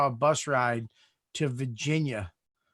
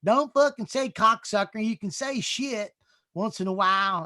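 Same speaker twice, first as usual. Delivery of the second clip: much higher, reassuring mentor voice; imitating Vic; 9 semitones higher than usual. Vic calming a nervous young comic, in a high reassuring voice. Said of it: "Vic was like".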